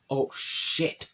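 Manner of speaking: breathy, stunned whisper; whispered shock. Retold or imitated. Boys stunned by a slammed locker, whispering shock. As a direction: hush it like you saw something bad.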